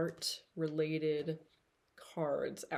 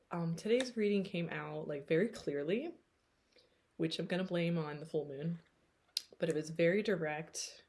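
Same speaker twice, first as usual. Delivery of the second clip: ordinary talk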